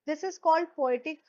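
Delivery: drawn out, each word laid down; slow and deliberate for the class; slow, stressed term. Shown as a demonstration. Teacher to students, stating the term slowly. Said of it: "क्या कहते हैं इसे?".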